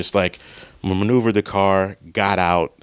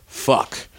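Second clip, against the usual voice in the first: whispered curse; 5 semitones higher than usual. Retold or imitated. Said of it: "I'm just like".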